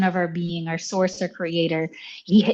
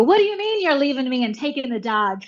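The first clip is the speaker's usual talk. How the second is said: mock breakup drama; 6 semitones higher than usual. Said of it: "I go".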